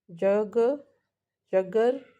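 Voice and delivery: syllable breakdown. Shown as a demonstration. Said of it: "बड़ा सा word है".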